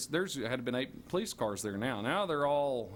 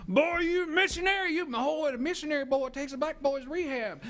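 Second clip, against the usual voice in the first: mocking cop; 13 semitones higher, 4 dB louder than usual. Laughing cops jeer at the missionary, high and loud. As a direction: jeer at him through laughter.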